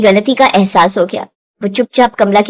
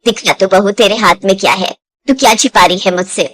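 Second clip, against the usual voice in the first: suspicious mother-in-law; 5 semitones lower than usual. Acted. Suspicious mother-in-law questions daughter-in-law.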